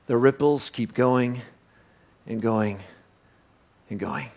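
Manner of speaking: dying-away finish; fading away. Acted. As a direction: let it fade out. Ripples fading out.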